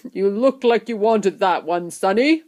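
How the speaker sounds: lightly voiced friendly shopkeeper; a friendly remark with a small lift on Sonny; pleasant. A narrator's reading. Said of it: "the shopkeeper said pleasantly".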